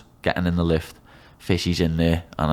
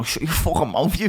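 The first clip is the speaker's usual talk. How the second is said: mock drill yell; 8 semitones higher than usual. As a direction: imitate a shouting instructor, half-hearted. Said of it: "someone shouting in my face".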